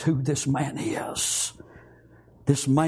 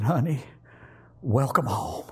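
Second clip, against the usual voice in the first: tender whisper; 3 semitones lower than usual. Acted. Wife welcoming her husband home in a whisper. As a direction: whisper it into his shoulder.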